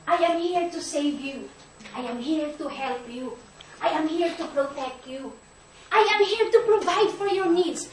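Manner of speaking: tender Jesus. Retold or imitated. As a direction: gently comfort the mother, hushed. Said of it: "as if He is telling to the woman".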